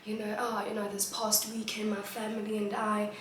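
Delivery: mild polite student greeting; school presentation voice. Retold or imitated. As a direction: open politely in front of class. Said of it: "o bula ka".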